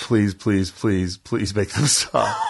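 slow, stretched please, please, please make them stop; drawn-out pleading. Retold or imitated. Retelling the woman begging the band to stop, slow drawn-out plea. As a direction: drag out each please like a tired plea. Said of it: "just screaming in German".

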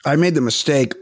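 talking with food in mouth; chewing while speaking; mouth full. Real, not acted. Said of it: "Excuse me, I'm eating something".

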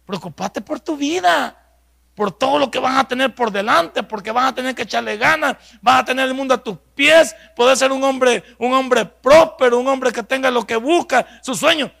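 put-on a father pressing his boy to go after his dreams, fervent; fatherly urging. Father urging his teenage son.

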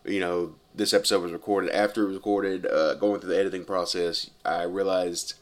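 blocked nose from a cold; nasal voice. Real, not acted. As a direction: talk through a stuffed-up nose. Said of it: "I apologize for the nasally sound of my voice".

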